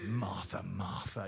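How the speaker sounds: a low, disappointed parent; low disapproving voice. Shown as a demonstration. A stern parent's low warning to a child. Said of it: "maybe you had that when you were growing up".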